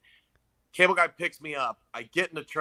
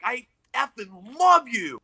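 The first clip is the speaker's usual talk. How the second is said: higher, pumped-up biker voice; hyped-up biker; 9 semitones higher, 4 dB louder, slower than usual. Retold or imitated. Biker hypes the nervous comic before his set, pumped up. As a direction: pump him up like a big union biker.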